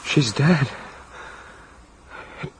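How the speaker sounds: low, halting shock. Acted. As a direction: break it up with stunned pauses. Reports finding a corpse.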